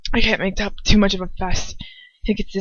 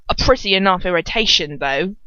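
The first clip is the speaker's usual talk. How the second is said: slurred. Shown as a demonstration. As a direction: slur it like drunk Dolohov. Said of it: "Dolohov slurs".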